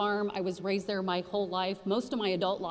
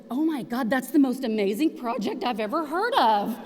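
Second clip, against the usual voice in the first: raised, louder gush of amazement; excited gush; 4 semitones higher, 6 dB louder than usual. Retold or imitated. Board members raving about the project, excited gush. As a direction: play the board's amazement a touch big.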